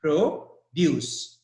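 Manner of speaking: "produce" broken in two, stress on DUCE; careful demo of "produce", second syllable stressed. Shown as a demonstration. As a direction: spell out the verb "produce" as pro... DUCE. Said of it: "The stress is on D U".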